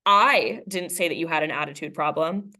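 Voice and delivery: "I" said with weight, rising at the end; stress on I. Shown as a demonstration. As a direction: put the stress on "I". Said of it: "emphasizing a different word".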